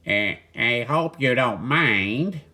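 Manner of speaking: lightly voiced hesitant duck, slow; barely changed voice for a tired duck; a hint of a shy duck. The tired duck asks Walter for a rest, lightly voiced.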